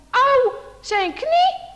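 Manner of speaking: drawn-out hurt cry, high; slow pained ouch. Acted. Boy falls in the snow and cries out in pain, slow. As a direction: feel the knee hit. Bram falls and hurts knee.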